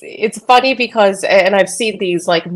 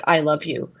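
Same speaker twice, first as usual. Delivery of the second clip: "I love you" softer and lower, romantic; 4 semitones lower, 7 dB quieter than usual. Shown as a demonstration. To friends, contrasting romantic I love you, tender. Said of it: "than a romantic".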